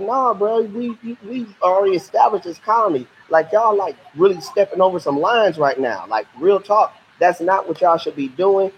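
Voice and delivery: teacher voicing the British telling off the French; indignant British. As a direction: act the British calling out the French. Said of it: "And the British are like".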